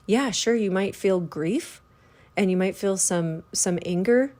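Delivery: slow, gentle and understanding; compassionate. Retold or imitated. Spirit guide gently consoling the grieving listener, slow and tender. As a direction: ease into it like a hand on the heart. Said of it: "like compassion".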